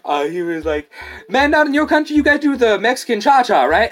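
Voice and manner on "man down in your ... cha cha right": much higher, louder mocking dude; coworker voice. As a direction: imitate the clueless coworker. Coworker voiced, silly claim.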